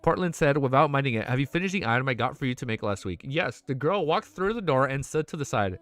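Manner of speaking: steady, even read-aloud narration; audiobook-style reading; story narration. A narrator's reading. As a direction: read the novel to chat.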